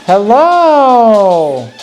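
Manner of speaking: high, bright dog greeting; talking to a dog. Real, not acted. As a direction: sing a hello to the pet.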